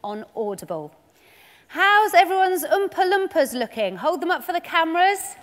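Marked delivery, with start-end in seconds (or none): 1.7-5.3 calling out. Real, not acted. Host calls out to kids.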